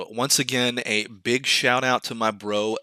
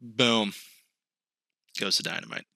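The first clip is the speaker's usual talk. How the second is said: radio announcer voice; 2 semitones lower, 6 dB quieter than usual. Shown as a demonstration. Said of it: "that radio voice".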